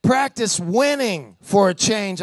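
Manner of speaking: voice of the Spirit. Retold or imitated. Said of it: "when the Holy Spirit says".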